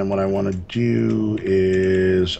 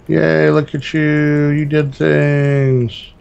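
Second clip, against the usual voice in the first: mock praise; 9 semitones higher, 8 dB louder, slower than usual. Praising friend's build.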